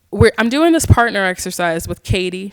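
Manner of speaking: usual speaking voice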